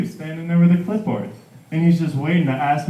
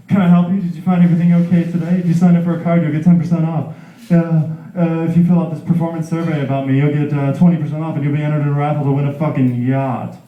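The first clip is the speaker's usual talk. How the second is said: loud upbeat sales pitch; chirpy overeager customer service; pushy salesclerk; 3 dB louder than usual. Acted. Service worker pitch, acted.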